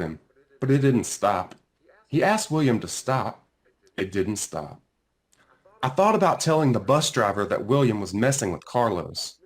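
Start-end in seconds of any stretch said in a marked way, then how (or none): none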